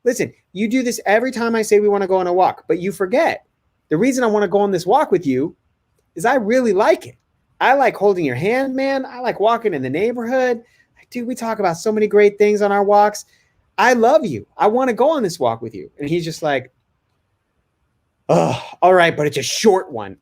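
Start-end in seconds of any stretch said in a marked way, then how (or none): 0.0-15.9 higher-pitched, earnest dad coaxing; calm reassurance. Retold or imitated. Dad telling his son why he likes their walks, reassuring. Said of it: "I just stay calm". 18.3-20.2 mildly exasperated giving in; a touch of put-upon kid, sighing into it; grudging consent. Retold or imitated. Son giving in to dad about the walk, grudging.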